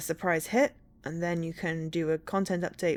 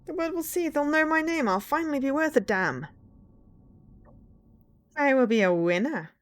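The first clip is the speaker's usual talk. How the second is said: villain voice; 8 semitones higher, 3 dB louder than usual. Pretend. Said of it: "my villain voice".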